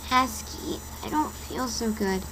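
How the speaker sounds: weak voice. Acted. Dizzy girl tells Masky she feels ill, softly. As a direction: say it like you're about to faint. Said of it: "said in a weak voice".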